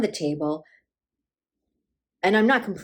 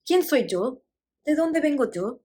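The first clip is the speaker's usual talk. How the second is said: lightly voiced, higher-pitched questioning; confused old mother; 7 semitones higher than usual. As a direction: ask as a lost elderly mother, pitch raised.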